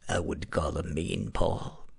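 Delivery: a hint of a mean radio DJ, slow, low and soft. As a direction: lightly voice the mean DJ in your head, slowly. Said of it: "Now that's mean D J voice".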